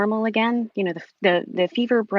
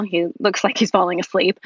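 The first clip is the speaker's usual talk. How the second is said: ordinary delivery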